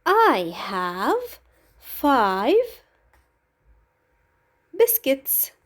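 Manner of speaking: drawn out word by word; very slow model answer. Shown as a demonstration. Teacher modelling the full sentence slowly for pupils. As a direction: stretch the answer out slowly for the class. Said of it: "The answer would be".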